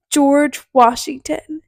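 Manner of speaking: slow, sure-of-herself answer; confident. Retold or imitated. Answering the lifeguard's question with the wrong president, confident. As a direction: say it slowly, with complete certainty. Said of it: "so confident".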